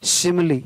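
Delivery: शिमली ending in a short "i"; शिमली with final e voiced as short "i". Shown as a demonstration. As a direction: sound the last e of शिमली as short i. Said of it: "छोटी हो रहा है".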